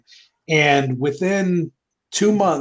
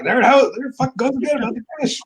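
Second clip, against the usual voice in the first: mock exasperated; 9 semitones higher, faster than usual. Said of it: "We were like".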